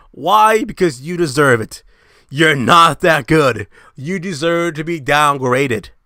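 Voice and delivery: loud, scolding rant; furious lecture at the viewers; angry rant. Real, not acted. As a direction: chew them out hard. Ranting at bad players.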